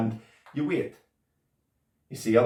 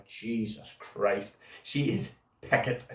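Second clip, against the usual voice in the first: awed whisper; 6 dB quieter, slower than usual. Acted. Marvelling about girlfriend.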